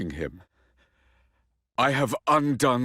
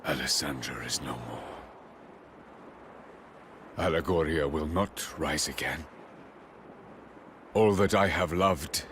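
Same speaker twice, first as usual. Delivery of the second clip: grieving lament; 7 semitones lower, 7 dB quieter than usual. Acted. King mourns his lost kingdom.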